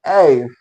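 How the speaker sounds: एफ low and falling, ending in a hissed f; corrected letter F. Shown as a demonstration. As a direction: say एफ as 'eff' with a long fricative ending. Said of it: "फो और सो जुड़ा हुआ है".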